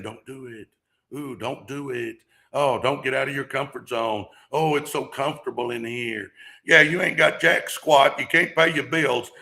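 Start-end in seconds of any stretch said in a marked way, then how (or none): 0.0-6.3 whisper-tempt them like fear itself. Retold or imitated. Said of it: "fear is saying".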